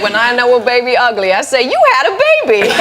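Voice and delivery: high, blunt nurse voice; nurse impression. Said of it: "she fully transforms into the people involved".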